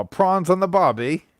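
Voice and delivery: slow, rising Aussie-style prawns on the barbie; mock Aussie phrase. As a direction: drawl it like a jokey Australian. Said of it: "call them prawns not shrimp".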